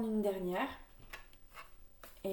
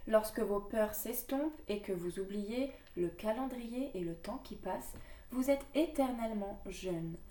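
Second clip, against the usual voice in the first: measured, earnest reading of the card text; card reading aloud. Acted. Reading her oracle card to viewers, earnest reading voice. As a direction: read the message to viewers like an oracle.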